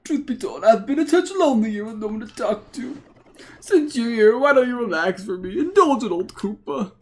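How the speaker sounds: put-on old man voice. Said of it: "the old man voice".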